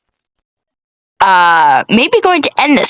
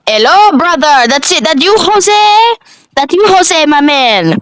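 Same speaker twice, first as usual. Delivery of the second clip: cashier voice; 9 semitones higher, 3 dB louder than usual. Acted. Cashier greets Keith at Taco Bell.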